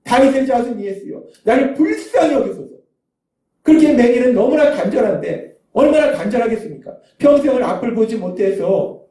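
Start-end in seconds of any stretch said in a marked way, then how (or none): 0.0-2.8 earnest crying out. Acted. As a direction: plead as the beggar begging for mercy. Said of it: "간절히 소리칩니다".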